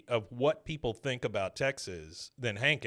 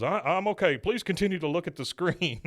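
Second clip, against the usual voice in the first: higher, strained composure; Hank holding back tears; 6 semitones higher than usual. Retold or imitated. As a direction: pretend you're fine.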